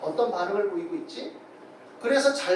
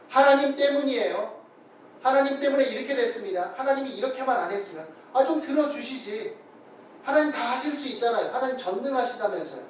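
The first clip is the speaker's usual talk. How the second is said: mildly acted grumbling at God, a little raised; resentful complaint; 3 semitones higher than usual. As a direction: complain as if blaming someone who let you down. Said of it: "그리고 하나님을 원망하는 거죠".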